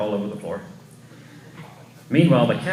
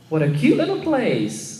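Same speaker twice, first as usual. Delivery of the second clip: Snow White voice; 7 semitones higher than usual. Acted.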